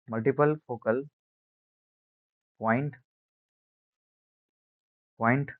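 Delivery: spaced out for note-taking. Shown as a demonstration. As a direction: pause before the last word. Dictates the term in chunks.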